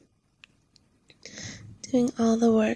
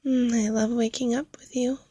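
whisper. Acted. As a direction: whisper it lovingly.

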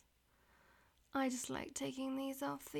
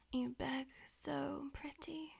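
whispering. Acted. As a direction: whisper it close to the ear. Whispered throughout.

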